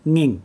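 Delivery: nging, starting on the ng of singing; initial ng sound. Shown as a demonstration. Teacher isolating the sound for learners, initial ng. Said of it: "drop the S I at the beginning".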